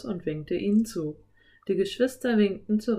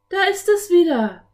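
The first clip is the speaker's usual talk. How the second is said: high, loud cry of discovery; calling out; 11 semitones higher, 9 dB louder than usual. A narrator's reading. Anne pointing out the rabbit, high excited call. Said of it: "rief Anne".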